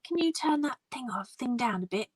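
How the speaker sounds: high-pitched, mildly pushy imitation of a complaint; retold aggressive demand. Stranger complains about the phone's volume, mildly aggressive imitation. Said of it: "he got really aggressive".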